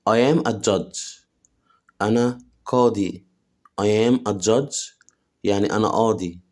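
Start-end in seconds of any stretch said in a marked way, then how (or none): 0.1-1.3 slow model sentence. Shown as a demonstration. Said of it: "teacher models slowly". 3.8-4.9 slow model sentence. Shown as a demonstration. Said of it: "teacher models slowly".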